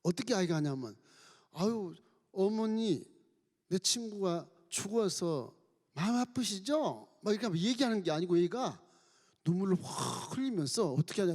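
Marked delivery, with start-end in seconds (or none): 1.5-7.1 tender comfort. Acted. Child consoling friend's grieving mother, slow tender voice. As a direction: comfort her gently, slowly.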